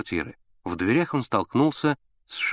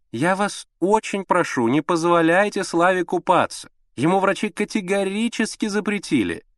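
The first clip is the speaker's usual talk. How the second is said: high, pleading anxious lady; fussy mother; 9 semitones higher, 3 dB louder than usual. A narrator's reading. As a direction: plead like a fretful invalid mother. (капризная встревоженная мать)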